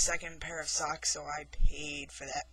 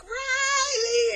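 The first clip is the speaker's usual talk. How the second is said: high, loud shriek of her name; high shouted name to scare the girl; monster shout; 7 dB louder than usual. Retold or imitated. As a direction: call her name out like a haunting. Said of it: "So I'm like".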